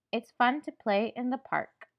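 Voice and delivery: lively, cheerful delivery; happy. Shown as a demonstration. Teacher showing pupils how a happy voice sounds, happy. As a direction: act out simple happiness. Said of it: "I sound happy".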